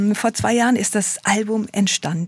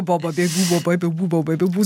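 voice warm-up syllables; 3 semitones lower than usual. Shown as a demonstration. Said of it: "Also ich kenn so".

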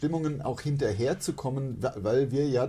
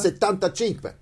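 put-on Italian accent; 6 semitones higher than usual. Italian number.

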